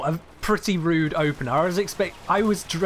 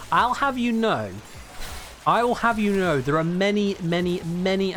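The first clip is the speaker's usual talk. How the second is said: higher, playfully affronted announcement; hammed-up indignant correction; mock indignation; 4 semitones higher than usual. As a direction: pretend to take offence, drawing yourself up. Mock indignant reply to chat.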